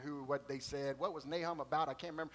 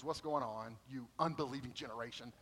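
a lower, mild jab of exasperation; barbed rebuke; 5 semitones lower, 5 dB quieter than usual. Retold or imitated. Jesus scolding the arguing disciples, with a mildly barbed rebuke. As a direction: needle them with a light rebuke. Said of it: "Jesus could throw a barb".

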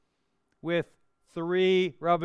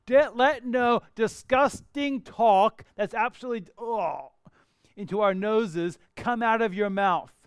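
louder, higher, revolted paraphrase of the verse; disgusted emphasis; 4 semitones higher, 5 dB louder than usual. Shown as a demonstration. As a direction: spit out come out of your mouth with loud disgust. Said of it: "that's the illustration is this".

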